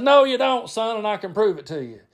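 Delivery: high, emphatic contradiction; insistent uncle Brad. Retold or imitated. Uncle arguing back at cousin, insistent. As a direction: argue back as a know-better uncle. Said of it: "Brad would be getting on to him".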